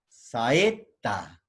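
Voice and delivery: "saeta" as sa-e, pause, ta; vowels separated. Shown as a demonstration. Teacher showing a hiatus, "saeta" split by syllables. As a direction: give a and e their own beats in "saeta". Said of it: "hiatos simples".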